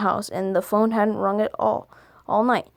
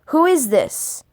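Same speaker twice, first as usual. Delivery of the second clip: stranger voice; 6 semitones higher, 3 dB louder, slower than usual. Shown as a demonstration.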